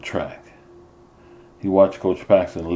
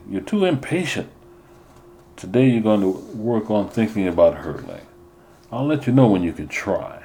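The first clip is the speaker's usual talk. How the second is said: stern coach; 3 semitones higher than usual. Acted. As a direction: lay down the rules to an impatient runner. Coach voiced in story.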